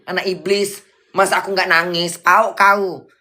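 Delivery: high, indignant retort; angry scolding. Real, not acted. Scolding a commenter who asks if Bunda would cry, angry. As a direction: snap back with insults, pitch riding up. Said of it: "suka kali marah-marah".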